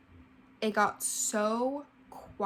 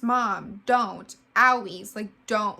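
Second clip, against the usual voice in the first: retold child scream; 7 dB louder, slower than usual.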